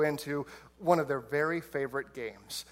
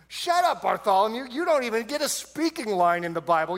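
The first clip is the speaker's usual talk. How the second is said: mock yell; 5 semitones higher, 3 dB louder than usual. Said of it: "Bartholomew speaks up".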